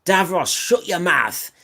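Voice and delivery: put-on a half-managed Cockney Doctor accent. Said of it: "It's very hard to do".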